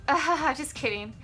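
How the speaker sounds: mock fake-laugh brush-off; laughing it off insincerely; passive-aggressive. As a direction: imitate a friend passing off a dig as a joke. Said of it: "she was really passive-aggressive".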